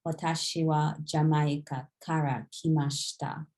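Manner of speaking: quick, natural run through the sentence; said fast. Shown as a demonstration. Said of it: "if you say it really fast".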